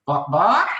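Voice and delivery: lightly voiced chicken saying bark. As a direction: play the silly chicken barking. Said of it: "it says".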